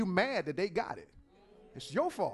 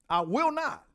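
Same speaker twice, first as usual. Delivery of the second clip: loud, forceful refusal, higher; personified Aggressive, firm and loud; 5 semitones higher, 10 dB louder than usual. Acted. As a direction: insist like you won't back down. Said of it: "Aggressive says".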